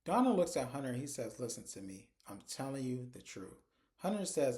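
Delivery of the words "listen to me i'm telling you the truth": retold earnest plea. Accused man pleads to be believed, retold as soft earnest plea.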